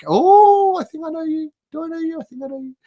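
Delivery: very high squeaky put-on voice; falsetto. Greeting a viewer, falsetto.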